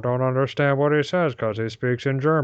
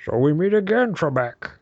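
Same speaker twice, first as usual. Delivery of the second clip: mock villain greeting to Trebek; lightly voiced Sean Connery teasing Trebek; Sean Connery impression; 3 semitones higher, 4 dB louder than usual. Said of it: "should we all just do Connor".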